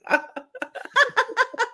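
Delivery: high burst of laughter; big laugh. Retold or imitated. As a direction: let out a high, full belly laugh. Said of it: "And I'm like".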